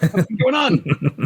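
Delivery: put-on Scottish accent. Retelling a one-second trailer clip of a squat silhouette: imitating a Scottish accent. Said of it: "with a Scottish accent going".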